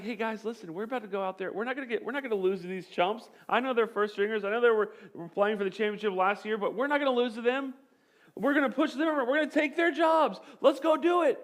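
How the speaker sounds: rally the team, building to a rallying cry; rising pep talk. Retold or imitated. Quarterback rallying fourth stringers in the huddle, building excitement.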